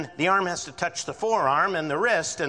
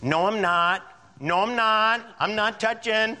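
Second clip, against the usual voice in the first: higher, louder whiny denial; defensive sibling denial; 7 semitones higher, 3 dB louder than usual. Retold or imitated. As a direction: protest your innocence like a kid. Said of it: "And the person goes".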